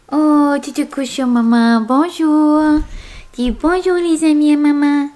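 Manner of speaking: lightly voiced little dog; speaking as the puppy, sweet; cartoon dog. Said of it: "parle comme une petite voix de chien".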